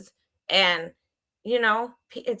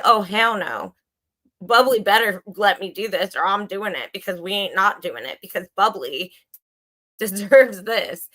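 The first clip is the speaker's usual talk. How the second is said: retold feisty refusal, pushed a bit louder; indignant retort; 4 dB louder than usual. Retelling to viewers how she insisted on helping Bubbly, indignant. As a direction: replay your own indignant protest.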